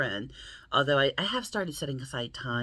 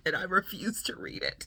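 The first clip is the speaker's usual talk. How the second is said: whisper; 6 semitones higher than usual. Real, not acted. Confessing about the unread book.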